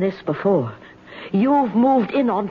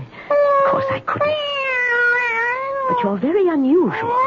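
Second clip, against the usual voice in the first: tearful, shaky. Acted. Frightened woman talking to cat.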